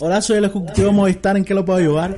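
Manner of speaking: brisk, polite call-center agent; customer service voice. Pretend. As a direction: answer like a phone company rep. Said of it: "qué buena llamada de espera".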